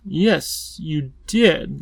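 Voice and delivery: lightly lisped, emphatic insistence. A narrator's reading. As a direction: insist on it with a touch of a lisp. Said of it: "lisped the Wangdoodle emphatically".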